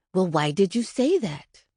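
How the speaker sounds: a mildly sharpened, stern question; a hint of sharp impatience. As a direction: press the child for an answer, edged. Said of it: "my voice dropped an octave and turned sharp".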